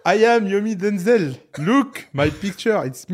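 put-on loud, high English with thick French accent; exaggerated French-accented English, half laughing; Yomi impression. Teasing a friend by re-enacting his video to the hotel, in heavy French-accented English. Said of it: "Pourquoi ton accent, euh, anglais, euh, français devient plus fort quand tu m'imites en anglais".

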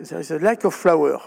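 put-on English quote with a French accent. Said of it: "excusez-moi mon accent anglais". (citation anglaise avec accent français)

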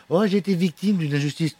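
mock whining. Mocking complainers.

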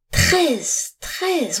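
understated roar, high and sharply falling; outraged roar. A narrator's reading. Master's son finding coins missing from his purse, roaring. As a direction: cry out the number in disbelieving fury. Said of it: "rugit-il".

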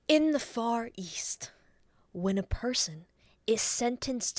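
eerie half-whispered threat with long pauses; put-on creepy creature voice; Gollum. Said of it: "hands the phone to Gollum".

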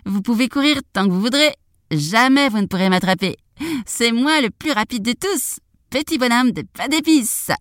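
high gingerbread man voice; taunting boast. Acted. Gingerbread man taunts the cow and others, high taunting boast.

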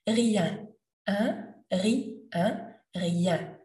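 "Rien" split into "ri" then nasal "un"; syllable drill on "Rien"; rien broken down. Shown as a demonstration. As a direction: build "rien" piece by piece. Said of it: "Think that you have a little ri".

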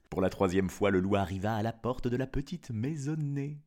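put-on storyteller reading to children; story narration. Narrator telling of the wolf's trick, story narration. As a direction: tell it as a fairy tale, with lilting phrases.

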